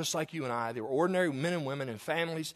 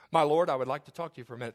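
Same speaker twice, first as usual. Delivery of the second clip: mock formal wife; 4 semitones lower, faster than usual. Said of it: "She comes in the room and says".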